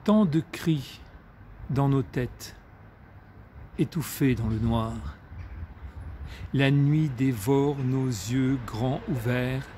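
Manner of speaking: measured recital, long pauses, falling line endings; poetry reading. A narrator's reading. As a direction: recite in short, weighted phrases. Reads a poem aloud.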